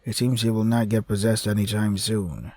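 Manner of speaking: steady dramatic reading; story narration. A narrator's reading. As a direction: read it like a novel. Reads visual novel narration and dialogue.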